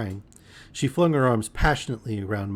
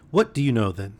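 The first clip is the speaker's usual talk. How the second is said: squarely challenging. Acted. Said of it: "faced me squarely and asked".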